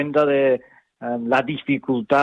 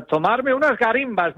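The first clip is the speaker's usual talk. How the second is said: lightly Canarian-flavoured "garimbas", said higher; Canarian word; 8 semitones higher than usual. Shown as a demonstration. El hablante presume de una palabra canaria, con un toque de acento canario. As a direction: savour "tomarme unas garimbas" like a local. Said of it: "otra palabra canaria que me gusta".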